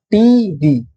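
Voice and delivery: "T V" slowly, each letter given full stress; teacher sounding out "T V" as two strong beats; both syllables stressed. Shown as a demonstration. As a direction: stretch out "T V", equal weight on T and V. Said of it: "Both are stress syllables here".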